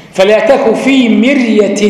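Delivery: فلا تك في مرية said slowly, ر in مرية light; slow recitation. Shown as a demonstration. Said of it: "ساكنة بعد كسر".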